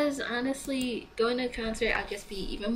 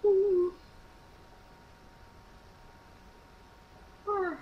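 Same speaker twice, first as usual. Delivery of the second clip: yawning; 8 semitones higher than usual. Real, not acted. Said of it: "sorry I'm yawning so much".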